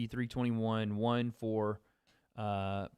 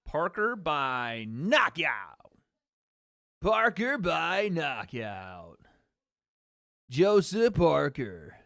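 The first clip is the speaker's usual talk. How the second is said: slow, loud ringside-style call of the pick; drawn-out fight call; 3 dB louder, much slower than usual. Real, not acted. Streamer to chat, calling Parker by knockout, slow loud call. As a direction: belt out the prediction slowly, like an announcer.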